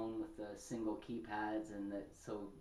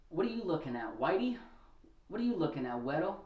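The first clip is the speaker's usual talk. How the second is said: güero with a rising sneer, louder; mock taunt; 4 semitones higher, 4 dB louder, faster than usual. Bar guy taunting the listener, louder mock sneer. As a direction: jeer at the white guy at the bar. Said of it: "he looked right at me and said".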